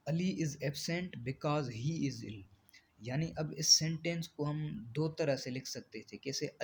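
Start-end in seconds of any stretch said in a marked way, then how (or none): 0.1-2.4 very slow, word-by-word reading of the definition; slow dictation. Shown as a demonstration. Teacher dictating a definition to the class, very slow and even. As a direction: spell the definition out slowly for students to copy. Dictates example sentence slowly.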